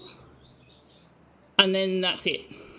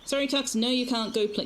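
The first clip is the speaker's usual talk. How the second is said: gentle pet scolding; 4 semitones higher than usual. Real, not acted. Telling cat no.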